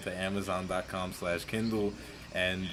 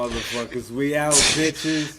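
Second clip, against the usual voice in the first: hype sign-off; 4 semitones higher, 6 dB louder than usual. Real, not acted. Podcast sign-off catchphrase.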